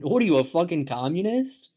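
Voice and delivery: hammed-up indignant American; outraged American reaction. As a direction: throw the accusation back, swooping up at the end. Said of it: "and they're like".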